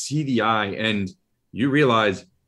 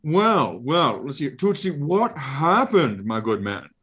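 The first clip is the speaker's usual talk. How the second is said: higher, fussy monster voice musing aloud; Ralakor creature voice; 6 semitones higher than usual. Acted. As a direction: muse like a pompous eye creature.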